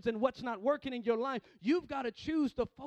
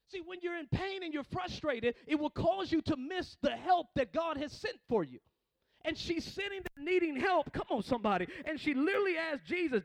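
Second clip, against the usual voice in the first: raised, urgent sermon voice; full-force preaching; 6 semitones higher, 6 dB louder than usual. Real, not acted. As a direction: preach it out to the congregation.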